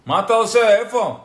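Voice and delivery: loud, high disbelieving outcry; people calling Nachshon crazy. Retold or imitated. People yelling at Nachshon, loud disbelieving. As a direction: shout him down as a madman. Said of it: "And people told Nachshon".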